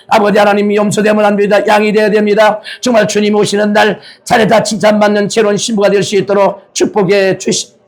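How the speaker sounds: urgent pastoral prayer. Real, not acted. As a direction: pray earnestly to the Father. Leads prayer.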